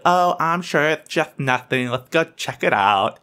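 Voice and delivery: S=Oh, I'm sure it's just nothing. Let's go check it out; imitating mom. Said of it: "She's like".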